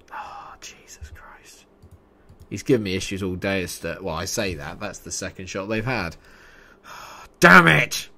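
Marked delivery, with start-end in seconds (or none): 0.1-1.7 slow, very soft exhaled whisper; real whispered exasperation; whispered oath. Real, not acted. Relief or dismay during play. 7.4-8.1 loud, high burst of frustration; sudden real curse; frustrated shout. Real, not acted. Reacting to setback.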